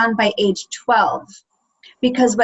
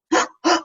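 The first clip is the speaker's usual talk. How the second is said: mock gasp. Amy Adams's character gasping at her anger. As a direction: gasp at something new inside. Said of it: "And she goes".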